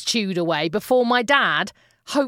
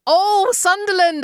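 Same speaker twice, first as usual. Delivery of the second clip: knowing realisation; 9 semitones higher, 5 dB louder than usual. Retold or imitated. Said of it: "I said".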